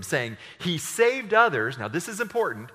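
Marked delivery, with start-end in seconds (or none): 0.6-1.8 slow, louder and higher sneer; scoffing ruler. A narrator's reading. Ruler mocks Jesus on the cross, slow louder sneer. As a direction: sneer it out slowly. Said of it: "the ruler scoffed at him".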